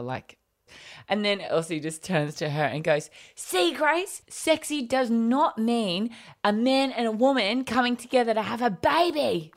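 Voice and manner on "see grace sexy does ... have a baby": put-on high, bright-eyed child correcting her sister; little girl voice. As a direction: squeak it out like a know-it-all kid. Mum voices little daughter.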